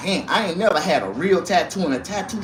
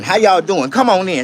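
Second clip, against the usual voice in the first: hype greeting; 3 semitones higher, 5 dB louder than usual. Acted. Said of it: "greets viewers as a host".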